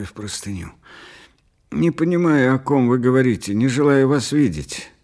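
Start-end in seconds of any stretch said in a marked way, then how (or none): 1.7-4.9 high, louder agitated protest; upset, insistent outburst; angry rejection. A narrator's reading. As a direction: refuse him heatedly, voice raised. Patient angrily rejects the visitor.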